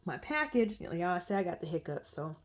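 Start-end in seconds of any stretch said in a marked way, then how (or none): 0.0-0.8 high, sweet polite doorstep voice; politely asking the neighbor at the doorbell, high and sweet; overly polite. Retold or imitated. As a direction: put on your nicest asking-a-stranger voice. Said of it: "I'm, like, talking, like".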